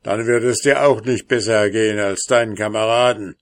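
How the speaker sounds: laut, schnell und grimmig; wütende Drohung, herausgeschleudert. Acted. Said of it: "rief grimmig der Zwerg". (grimmiger Zwerg, laut und hastig)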